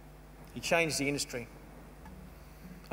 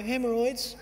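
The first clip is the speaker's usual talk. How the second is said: embarrassed laugh; 7 semitones higher, slower than usual. Retold or imitated. Embarrassed patient's answer.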